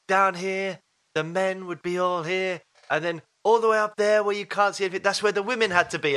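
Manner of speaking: lightly voiced tour guide, measured delivery; a hint of a mock-serious guide; misogynistic tour guide. Guide telling tourists where women sat, lightly imitated. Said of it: "I can't do an Italian accent".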